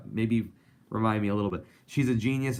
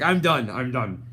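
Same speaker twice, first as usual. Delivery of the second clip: a touch higher, mock fed-up cat; cat's voice; 3 semitones higher, 6 dB louder than usual. Streamer voicing his cat, a lightly fed-up sigh. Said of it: "He's like".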